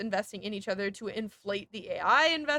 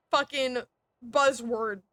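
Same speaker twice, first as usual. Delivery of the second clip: usual speaking voice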